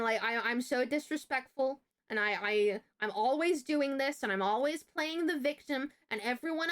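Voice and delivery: mildly heightened, ranting list of complaints; going off. Retold or imitated. Teacher goes off at student about her work, mock rant. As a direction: imitate a teacher's tirade, piling up the accusations. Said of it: "starts going off".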